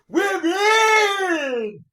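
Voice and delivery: hammed-up shrill shout of joy, high and loud; shrill unnatural shriek. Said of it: "a really shrill kind of unnatural way of saying".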